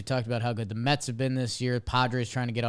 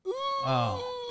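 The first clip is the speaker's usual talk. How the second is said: excited oh. Real, not acted. Eager reply to bet question.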